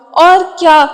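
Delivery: a light, puzzled question; gently surprised query; mildly surprised. A narrator's reading. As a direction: ask it with mild wonder. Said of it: "حیران ہو کر پوچھا".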